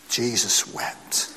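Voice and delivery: whispered very slowly. Acted. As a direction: let the whisper carry the grief. Repeated as the emotional climax.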